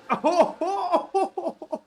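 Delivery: loud, high burst of laughter. Real, not acted. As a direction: break into laughter. Laughs at crash replay.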